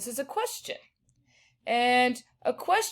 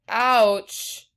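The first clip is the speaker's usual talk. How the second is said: exclaiming; 5 dB louder than usual. Shown as a demonstration. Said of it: "but let's say".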